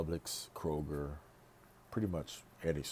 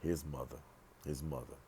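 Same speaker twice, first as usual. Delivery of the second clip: hushed repetition; 7 dB quieter than usual. Real, not acted. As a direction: drop the volume right down on the repeat. Drops voice on repeated words.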